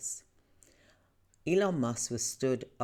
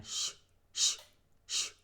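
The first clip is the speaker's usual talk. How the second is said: whispered shh, imitating a child; retold quiet shushing. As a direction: hush him softly like the boy did. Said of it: "he was doing it quietly".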